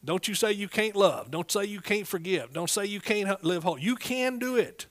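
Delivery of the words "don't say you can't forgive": usual speaking voice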